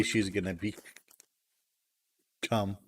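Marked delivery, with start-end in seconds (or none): 2.4-2.8 "become" set apart after a long pause, said softly and low; emphasis on "become". Real, not acted. Finishing a remark about her celebrity, emphasis on a delayed "become". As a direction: hold back, then drop "become" in on its own. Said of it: "Emphasis on that last word".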